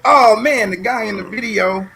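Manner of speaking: retold jolt of recognition; surprised recognition. Recalls his own surprised reaction.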